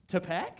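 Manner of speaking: Tapak as a rising "tuh-PACK?"; questioned pronunciation. Shown as a demonstration. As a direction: query Tapak with a weak first vowel, tuh-PACK. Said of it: "is it Tapak or Tapak".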